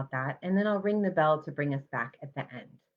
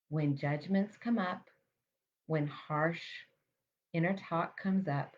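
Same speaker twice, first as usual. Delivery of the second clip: guided mindfulness meditation. Real, not acted. Meditation teacher guiding listeners to notice their breath, calm and measured. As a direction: calmly guide them to the breath, leaving space between phrases.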